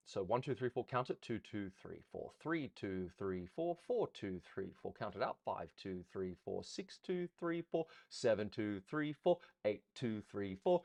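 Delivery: lilting dance count; dance teacher calling the count with tone. Shown as a demonstration. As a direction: count the beats aloud with a musical lilt. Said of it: "always count with a little bit of tone".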